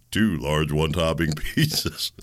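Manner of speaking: laughing through it. Real, not acted. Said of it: "I can't do it".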